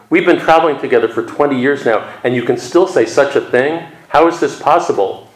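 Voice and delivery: a touch of incredulity in a retold outburst; exclaimed disbelief. Shenshan to his companion in the retold koan, mildly exclaiming in disbelief.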